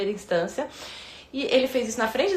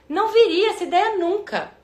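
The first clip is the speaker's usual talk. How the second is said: usual speaking voice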